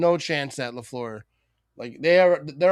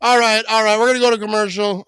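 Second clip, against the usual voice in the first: excited; 9 semitones higher, 9 dB louder than usual. Real, not acted. Still buzzing after the interception.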